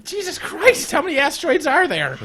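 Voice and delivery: high-pitched incredulous outburst; exasperated disbelief. Real, not acted. Player overwhelmed by repeated asteroids, exasperated. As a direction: protest it, pitch shooting up.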